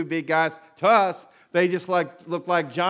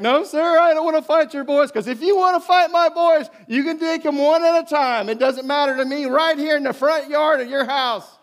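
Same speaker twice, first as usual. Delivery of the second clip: stern father; 9 semitones higher, 4 dB louder than usual. Retold or imitated. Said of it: "And he was like".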